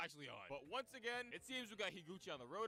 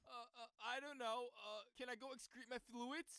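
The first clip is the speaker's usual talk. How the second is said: dim Misa voice; 4 semitones higher than usual. Retold or imitated.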